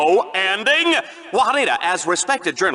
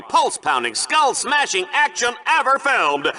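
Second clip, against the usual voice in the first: booming game-show host welcome; hyped TV host. Acted. Host welcoming viewers back, booming showman hype. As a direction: sell the carnage like a TV host.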